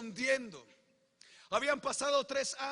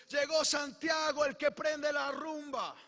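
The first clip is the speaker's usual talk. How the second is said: party shout; 3 semitones higher, 3 dB louder than usual. Retold or imitated. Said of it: "lo primero que escucho es".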